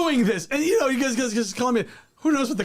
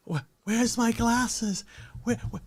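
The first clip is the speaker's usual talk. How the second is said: mock searching; 4 semitones higher, 3 dB quieter, slower than usual. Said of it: "I was like".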